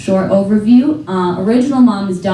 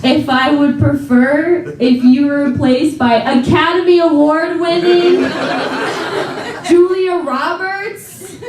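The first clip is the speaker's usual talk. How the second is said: incredulous retort; 5 semitones higher, slower than usual. Retold or imitated. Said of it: "I'm like".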